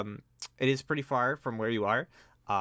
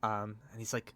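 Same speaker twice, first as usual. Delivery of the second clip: ordinary talk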